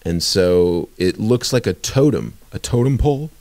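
words pushed out through a burp. Real, not acted. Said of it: "uh, burping".

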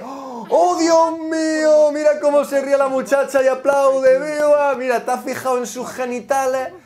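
high, loud, stretched mock gasp of wonder; hammed-up amazement. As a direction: gush like a fan seeing a miracle.

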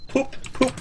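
high, goofy squeaky poop poop; silly high voice. Pretend. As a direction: play it like a silly cartoon. Silly noise in chat.

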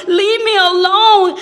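high-pitched cry of protest; acted yell. Painted teacup cries out at the master, acted yell. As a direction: yell it out in distress. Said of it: "I began to yell out".

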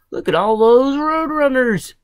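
high, loud storybook character voice; excited exclamation. Acted. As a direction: call it out, amazed.

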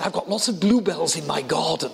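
lightly imitated posh English accent; a touch of posh old lady's English. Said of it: "posh voice".

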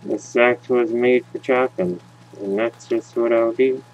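slack jawed dopey voice. Pretend. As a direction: say it like a dim, slack jawed lug. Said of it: "And now I sound dopey".

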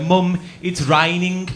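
put-on slow, drawn-out plummy little boy; a small boy speaking too properly; posh child voice. Little boy to his mum, slow and posh. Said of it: "she heard me go".

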